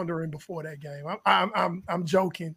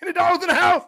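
hype call; 9 semitones higher, 5 dB louder, faster than usual. Acted.

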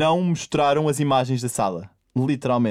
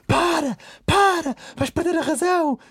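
Catarina Siqueira; 3 dB louder, slower than usual. Retold or imitated. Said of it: "ouve-se a Catarina Siqueira".

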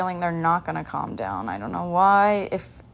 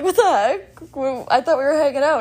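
mock outrage; 6 semitones higher, 3 dB louder than usual. Retold outrage at friend leaving.

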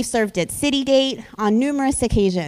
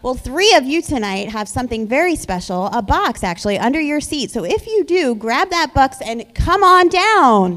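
game show host; 3 semitones higher, 4 dB louder than usual. Acted. Youth pastor hosting prize skit.

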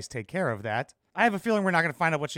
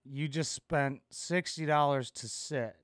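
flat mocking repeat; 3 semitones lower, 6 dB quieter, slower than usual. Repeats her line mockingly.

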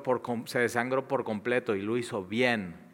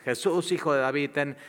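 loud, raised plea; crying out again; 4 semitones higher, 4 dB louder than usual. Retold or imitated. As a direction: shout it over the crowd, pleading. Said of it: "Y así tres veces".

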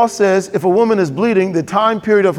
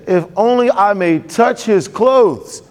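woman's hopeful vow; 2 semitones higher, slower than usual. Acted. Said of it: "For she said".

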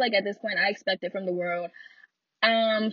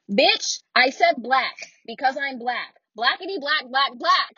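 higher, punchy insistence on BLACK; exasperated retort; 4 semitones higher, 4 dB louder than usual. Retold or imitated. Retorting to a relative who left out black, exasperated. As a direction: hammer the repeated word home, pitched up.

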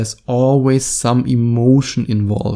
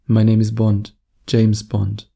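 lower pitched. Shown as a demonstration. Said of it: "Totally different vibe".

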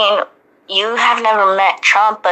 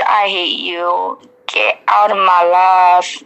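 sassy; slower than usual. Pretend. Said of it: "Obama said sassily".

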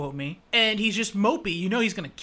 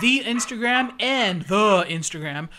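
put-on old person voice; 4 semitones higher, 6 dB louder than usual. Shown as a demonstration. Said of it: "I have to say it like an old person".

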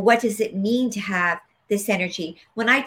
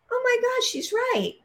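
much higher, an amazed gasp of insight; sudden realization. Retold or imitated. She realizes her teacher was right, higher and amazed. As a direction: it dawns on her all at once.

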